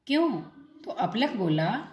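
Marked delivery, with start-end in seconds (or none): 0.1-0.4 surprised. A narrator's reading. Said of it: "अपलक हैरान होकर बोला".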